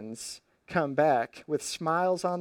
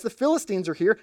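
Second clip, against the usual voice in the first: mild mock yell; 6 semitones higher, 3 dB louder, faster than usual. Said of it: "then yells".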